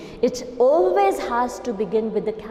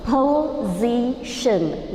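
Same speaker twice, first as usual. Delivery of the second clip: "Position" drawn out slowly with a falling tune; teacher stretching "Position" so it is not heard as possession; stressed contrast word; much slower than usual. Shown as a demonstration. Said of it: "not possession".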